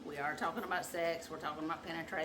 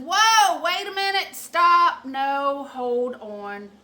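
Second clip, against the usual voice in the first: loud, high halt, easing off by the end; mock alarmed protest; 7 semitones higher, 15 dB louder, much slower than usual. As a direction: put the brakes on him, loudly. Acted protest to husband.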